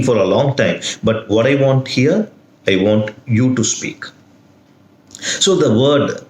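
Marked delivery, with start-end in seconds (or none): 2.7-4.0 "you" set apart and weighted; stress on YOU. Shown as a demonstration. Teacher summing up what is wanted, stress on "you". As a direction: put the emphasis on "you". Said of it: "the stress on the word you changes the meaning".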